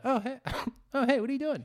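high, startled friendly greeting; squeaky hey to a bear, laughing; high mock greeting to the bear.

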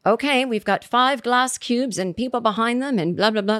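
lightly put-on British host; a hint of a British presenter; British accent. TV host introducing five glass cubes, light British accent. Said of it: "This is my British accent".

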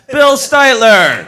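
loud, high, stretched-out name; slow, ringing showman's introduction; announcing a guest. Real, not acted. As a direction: belt out the name for the crowd. Host introduces guest on stage.

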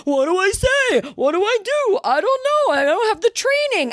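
high-pitched whining mimicry; mock panicky helplessness; helpless men, mocked. Mocking men asked to speak out.

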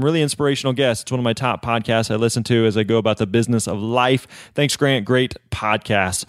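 lightly put-on Australian accent that slides toward British; a hint of an Australian accent, drifting British; mock Australian accent. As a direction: read the listener review in a half-hearted Aussie voice. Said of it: "Was that, that was more of a British accent".

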